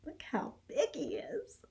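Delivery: whispered aside to the class; breathy secret aside. Real, not acted. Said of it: "teacher aside whispered".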